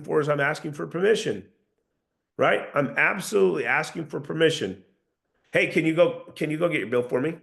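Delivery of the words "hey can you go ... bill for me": "bill for me" said as a certain statement; assured, level request; downward tonality. Shown as a demonstration. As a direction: ask "can you go" without seeking permission. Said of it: "notice the inflection in my voice".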